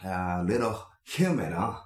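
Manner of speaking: hammy broken English small talk; fake English. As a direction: play a phony English-conversation teacher. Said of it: "エセ英語をちょっと喋り始めた".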